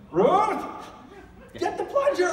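high urgent yell for the plunger; shouting for help. Retold or imitated. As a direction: call out in a panic across the house. Toilet overflows, calling wife.

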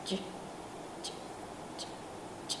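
ch kept very soft but still voiced; softened voiced ch. Shown as a demonstration. Teacher shows the voiced ch shrunk to a minimum. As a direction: shrink it down, keep the buzz. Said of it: "dặn nhỏ âm thanh xuống tối đa nhưng mà cổ vẫn rung".

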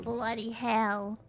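slow mock-British exclamation; British accent. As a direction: say it slowly in put-on British. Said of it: "speak in a British accent".

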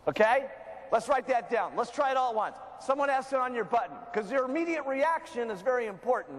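ordinary talk, nothing marked

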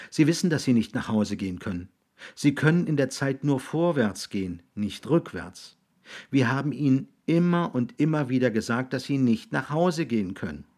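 put-on reasoning boy. Boy telling William he cannot go home, insistent.

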